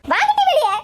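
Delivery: loud angry summons; acted challenging shout; calling out. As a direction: yell toward the house. Calling old woman out of house.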